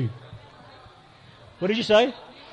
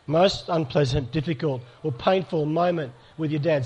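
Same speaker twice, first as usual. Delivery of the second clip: slow, soft repeat; 5 dB quieter than usual. Shown as a demonstration. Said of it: "I want you to think for a moment".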